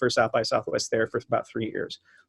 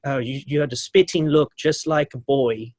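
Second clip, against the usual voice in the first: put-on British accent. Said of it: "she's from the U K".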